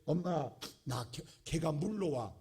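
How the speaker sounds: slow, composed call to mother; unhurried, absurdly proper cry for help; mock genteel call. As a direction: imitate a child far too dignified to panic. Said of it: "아주 점잖게".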